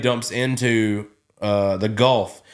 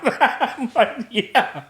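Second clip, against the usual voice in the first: much higher, words shaking with laughter; laughing answer; 12 semitones higher, much slower than usual. Real, not acted. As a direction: answer him while still in stitches. Still laughing while answering.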